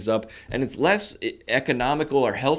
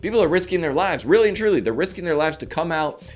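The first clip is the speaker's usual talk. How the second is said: insistent hype; 6 semitones higher, 3 dB louder than usual. Real, not acted. Mock-earnest insistence.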